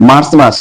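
মার্চ with the r clearly sounded; local Bengali pronunciation. Shown as a demonstration. Teacher contrasting how we say it, local pronunciation. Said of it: "আর আমরা বলি".

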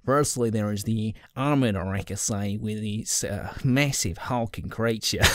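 put-on playful Australian accent; joking read in an Australian accent. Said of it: "done in an Australian accent".

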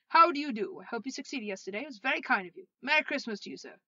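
loud, effusive welcome; jovial, lifted voice; hearty greeting. Acted. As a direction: greet them with eager goodwill. Scrooge heartily greets old gentleman.

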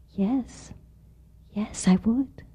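hushed eager yes. Acted. Little mouse accepting Frog's gift, hushed and awed. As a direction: breathe yes in wonder.

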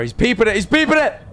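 high, rising alarm; alarmed cry. Acted. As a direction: cry out as if spotting disaster. Alarmed repeated cry at the horror.

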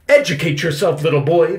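loud, high, scornful order. A narrator's reading. Victoria orders Benny to educate himself, imperious. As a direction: order the child about imperiously. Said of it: "Victoria ordered".

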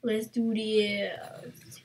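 slow whispered resolve. Real, not acted. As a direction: whisper it while creeping up. Sneaking up on an enemy.

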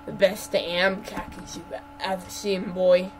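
lightly voiced cocky cowboy; swaggering boast. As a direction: brag about your khakis. Acted boastful reply as Philip.

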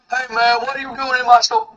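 mock caricature voice, a little animated; lightly put-on mock voice; put-on stereotype voice. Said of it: "I have a black person voice".

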